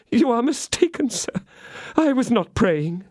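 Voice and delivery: high, trembling denial; tearful denial. Acted. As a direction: protest your innocence in tears. Milady denying, still tearful.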